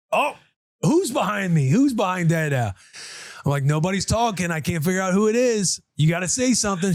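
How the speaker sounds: playful mock puzzled. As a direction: pretend you can't guess who it is. Playing along with daughter's game.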